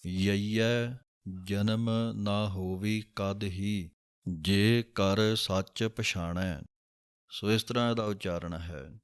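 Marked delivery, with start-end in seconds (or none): 0.1-6.6 slow, careful Gurbani line reading; slow recitation. Shown as a demonstration. Teacher reciting a scripture line slowly. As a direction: recite each word slowly and clearly. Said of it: "ਇਸ ਤਰ੍ਹਾਂ ... ਉਚਾਰਨ ਕਰ ਸਕਦੇ ਹੋ".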